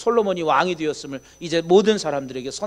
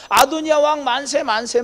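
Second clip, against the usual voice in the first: raised, cheering hail to the king; mock cheering crowd; 7 semitones higher, 3 dB louder than usual. Preacher voicing the feasting crowd, excited cheer. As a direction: cheer him on like a partying crowd.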